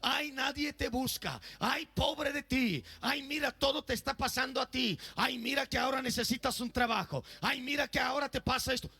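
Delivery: mock the anxious voices that crowd out God; nagging inner voices. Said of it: "voces que te están gritando".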